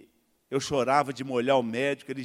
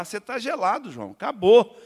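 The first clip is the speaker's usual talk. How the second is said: teammate's shout; 5 semitones higher, 8 dB louder than usual. Retold or imitated. Teammate rejects him, shouting.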